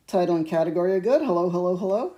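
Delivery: fast, manic crazy voice. Pretend. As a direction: rattle it off like a madman. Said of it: "That's my crazy voice".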